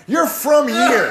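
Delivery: slow, loud "You're from here"; indignant shout. Real, not acted. Cohost yelling at host over bad joke, slow indignant shout. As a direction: shout it at him, stretched out.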